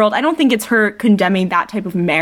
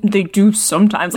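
put-on sulky contrarian child; childish. Shown as a demonstration. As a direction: say it like a cranky child due a nap. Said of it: "It's so childish".

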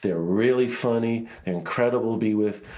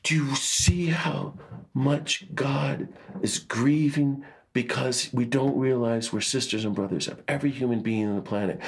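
imitating Tutu's tearful whisper; 4 semitones higher than usual. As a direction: whisper it as if holding back sobs. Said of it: "he starts sobbing".

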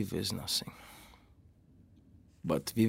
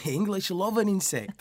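laughing; 7 semitones higher than usual. Real, not acted.

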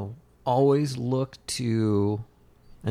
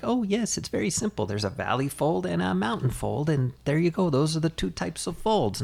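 breezy instructions; 5 semitones higher than usual. Retold or imitated. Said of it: "they're like".

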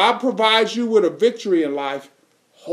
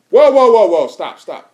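calling out; 7 dB louder than usual. Real, not acted. Preacher halts the congregation.

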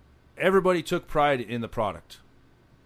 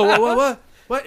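much higher, louder stunned repeated what; 9 semitones higher, 9 dB louder than usual. Retold or imitated. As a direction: blurt it out in shock like the box people. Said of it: "they go".

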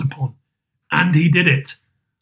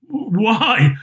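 high, drawn-out astonishment; slow, pitched-up surprise; astonished cry; 6 semitones higher, much slower than usual. A narrator's reading. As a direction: cry out in amazed recognition. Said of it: "cried Fred".

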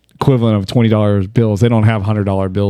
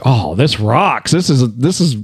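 retold delight; 4 semitones higher than usual. Quotes own delighted reaction.

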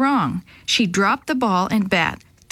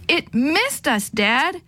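elated shout; 5 semitones higher, slower than usual. Acted. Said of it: "I shouted in elation".

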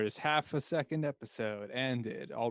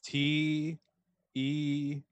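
spelling it out; much slower than usual. Shown as a demonstration. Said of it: "can you use it in a sentence?".

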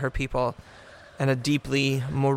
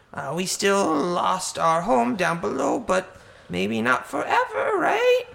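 hoarse bird voice; 2 semitones higher than usual. Acted. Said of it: "with a voice that sounds like a hoarse bird".

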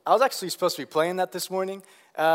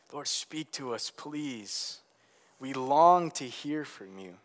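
earnest prayer. Real, not acted. Pastor praying aloud for Chris before the church, hushed prayer.

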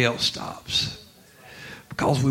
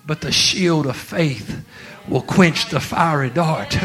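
slow, weighty quote. Retold or imitated. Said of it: "And God's saying".

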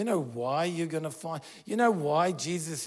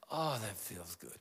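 lower, softer sigh of relief; a hint of blissful relief; relieved sigh; 6 semitones lower, 7 dB quieter than usual. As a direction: sink into the relief. Voicing relief after the adjustment.

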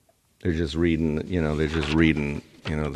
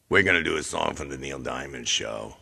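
different funny voice; 4 semitones lower, 4 dB quieter than usual. Pretend. Host repeating the show intro, lower put-on voice. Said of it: "all these different voices come up".

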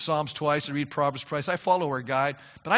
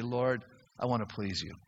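prayer; 5 semitones lower than usual. Retold or imitated. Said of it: "your passion is to say".

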